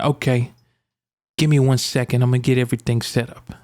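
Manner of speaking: a hint of a Brooklyn mobster; mob-like vet. Vet goes to set up the visit, slight mobster voice. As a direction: lightly imitate a mobster-sounding vet. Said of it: "He kinda sounds like he's in the mob".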